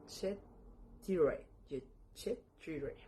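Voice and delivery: Chet Tire in separate pieces; pronouncing Chet Tire. Shown as a demonstration. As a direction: model Chet, then Tire. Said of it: "pero se pronuncia".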